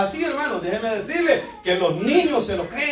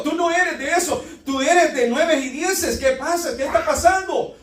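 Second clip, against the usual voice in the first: higher-pitched, insistent fatherly questioning; father correcting child; 6 semitones higher than usual. Acted. Father tells his son he is better than that, insistent and pitched up. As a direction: challenge the child to live up to better. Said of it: "Inmediatamente yo le digo".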